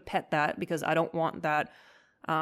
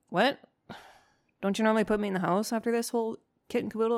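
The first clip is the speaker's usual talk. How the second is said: higher and fast, a lightly voiced baffled dog; mock bamboozled poodle wondering; confused dog voice; 5 semitones higher, faster than usual. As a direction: rattle off the dog's puzzled question. Dog's confused thoughts voiced.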